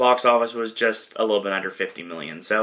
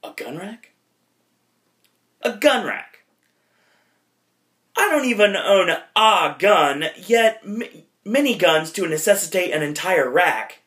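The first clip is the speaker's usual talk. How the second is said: high, slow incredulous put-on voice; dumbfounded Wayne; 6 semitones higher than usual. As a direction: drag it out in disbelief. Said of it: "He's like".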